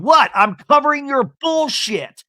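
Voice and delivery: high, loud imitated yell; hammed-up reality-TV scream; mock screaming. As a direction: shriek it like Tamra losing it. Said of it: "And Tamra screaming".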